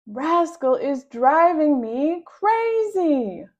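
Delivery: exasperated complaint. Acted. Violet complains about her sister.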